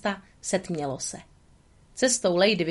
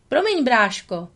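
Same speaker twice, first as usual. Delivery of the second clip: friendly; 5 semitones higher, 4 dB louder than usual. Acted. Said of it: "spustil Tramp přátelsky".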